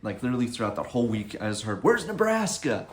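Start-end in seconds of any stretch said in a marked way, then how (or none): 1.8-2.9 high, loud, slow call; playful yell. Retold or imitated. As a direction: shout it across the camp. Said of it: "People just yelling that out".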